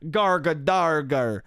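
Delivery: very slow, low garbled nonsense; imitated model gibberish. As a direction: drag out the garbled syllables in mock imitation. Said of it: "that's what, how they were talking".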